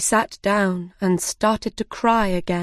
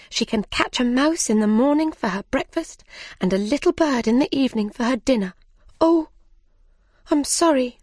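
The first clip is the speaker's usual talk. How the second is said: eager Alice; 5 semitones higher than usual. Acted. Alice boasting about her cat.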